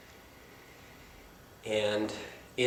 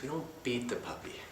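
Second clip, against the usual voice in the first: sing-songy voice; 2 semitones higher, 6 dB quieter than usual. Retold or imitated. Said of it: "beautiful sing-songy voice".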